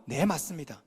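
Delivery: soft, humble agreement; meek yes. Shown as a demonstration. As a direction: say it gently, giving in. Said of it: "이 말만 하면 돼요".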